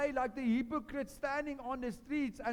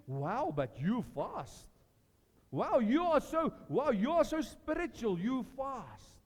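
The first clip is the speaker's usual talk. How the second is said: mock flattery. Devil's flatterers praise the faster, hammed-up awe. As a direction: lay on the admiration thick. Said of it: "He wants us to, to get this".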